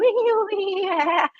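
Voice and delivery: high, drawn-out imitated party whoop; mimicked rowdy laughing.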